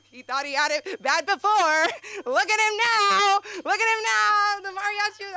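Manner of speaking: very high, loud, gleeful shrieking; mock hysterical glee. Mom delighting at the Wall Street guy's misery, hysterical high shriek. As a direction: shriek it as if crying with laughter. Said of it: "my mom's hysterically laughing, crying from laughing".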